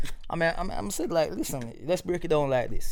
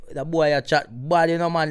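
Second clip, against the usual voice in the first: Jamaican patois. Shown as a demonstration. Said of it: "sometimes I say".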